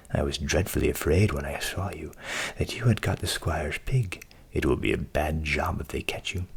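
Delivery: very low, grave countryman; low warning as the countryman. Acted.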